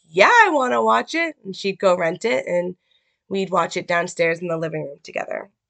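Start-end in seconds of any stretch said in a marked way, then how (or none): 0.2-1.4 mock-eager, thrilled, excited, higher-pitched. Recalling answering her mom's offer to watch a movie, retelling an excited reply. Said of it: "with excitement in my voice".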